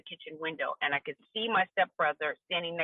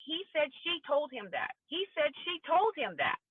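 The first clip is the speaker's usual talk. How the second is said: retold yell; 9 semitones higher than usual. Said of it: "it's being yelled".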